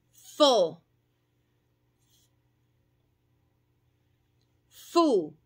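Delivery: "fe", "e", "Fi", "Fo", "Fu" fuertes; sílabas modelo. Shown as a demonstration. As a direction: dictar sílabas una a una. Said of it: "ya les digo". (maestra dictando sílabas)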